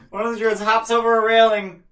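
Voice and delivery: laughing while talking; words squeezed out through laughter; after laughing hard. Real, not acted.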